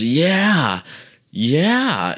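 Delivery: high, put-on wasted voice; high mocking echo of a wasted guy; imitated messed-up guy. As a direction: mimic his dopey, high-pitched agreement. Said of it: "And he goes".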